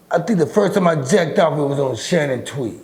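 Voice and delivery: laughs through the confession; chuckling at his own story; laughing. Real, not acted.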